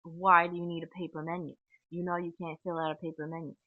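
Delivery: mock exasperated demand, hard on the first words; retold freak-out. Staff member challenging a paper-menu request, mildly freaked out. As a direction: imitate someone freaking out, lightly overdone. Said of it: "would freak out and just be like".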